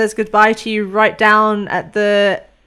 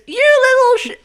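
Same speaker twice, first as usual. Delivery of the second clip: high, loud cut-off curse; outraged shout; 6 dB louder than usual. Acted. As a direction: yell it at the departing ship. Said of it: "Junie literally goes".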